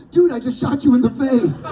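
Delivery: mock thrilled caller; excited friend. Friends phoning the actor about the game, gleeful shout.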